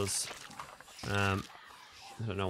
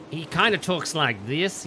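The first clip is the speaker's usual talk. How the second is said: slow, slightly louder put-on accent; a rough attempt at a drawling character voice; Mister Bitch; 4 semitones higher, 5 dB louder than usual. Shown as a demonstration. Player trying out a crewmate's voice, slow bad accent. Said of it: "How do you do a Mister Bitch's voice?".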